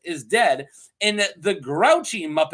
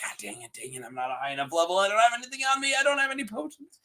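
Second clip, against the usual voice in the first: mock panic; 4 dB quieter, much faster than usual. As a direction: fret like an underleveled gamer, climbing in pitch. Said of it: "You're like".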